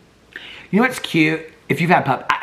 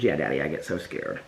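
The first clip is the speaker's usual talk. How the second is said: puppy voice; 9 semitones lower, 8 dB quieter than usual. Retold or imitated. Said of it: "He says".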